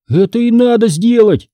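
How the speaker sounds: high-pitched, eager exclamation; excited cry. A narrator's reading. Boy urging Hanna to act on his idea, excited. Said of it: "возбуждённо закричал я".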